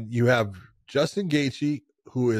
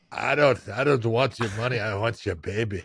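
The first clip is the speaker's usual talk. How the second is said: lightly voiced goofy Dave impression; a hint of Podcast Dave, lower; 3 semitones lower than usual. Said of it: "that's how Podcast Dave sounds".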